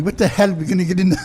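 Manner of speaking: a hint of an Irish brogue, quick; lightly put-on Irish brogue. Brogue for the hosts who asked to hear it. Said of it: "you do a great Irish brogue".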